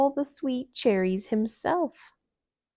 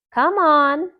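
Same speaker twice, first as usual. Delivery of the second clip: higher, louder call to a friend; 7 semitones higher, 10 dB louder than usual. Acted. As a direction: hurry him along. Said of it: "Thumper called to Owl".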